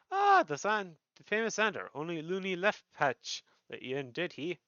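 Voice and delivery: lively rogue boss recognizing a name; Jackie. Acted. Jackie reacts to hearing Xander's name.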